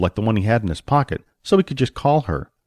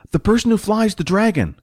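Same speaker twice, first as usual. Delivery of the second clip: high-pitched put-on voice; sidekick's high-voiced dismissal; character voice for Jack; 10 semitones higher than usual. A narrator's reading. Jack clarifying for Billy in character.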